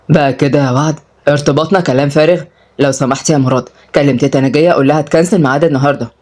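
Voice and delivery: lightly voiced man, low, mildly taken aback; shocked suitor. Suitor hears engagement called empty talk, mildly shocked. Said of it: "أدهم اتصدم".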